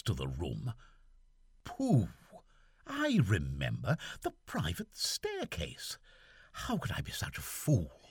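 lightly voiced officer musing alone; soliloquy. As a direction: think aloud, half to yourself. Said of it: "still speaking in soliloquy".

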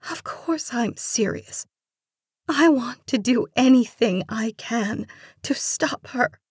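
high, breaking tearful voice; sobbing. A narrator's reading. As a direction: plead through tears. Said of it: "she sobbed".

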